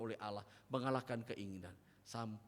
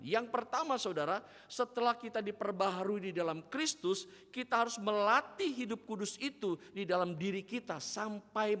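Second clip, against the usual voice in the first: higher and louder, fast and fervent; full force preaching; 7 semitones higher, 7 dB louder than usual. Acted. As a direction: drive the point home from the pulpit. (khotbah berapi-api)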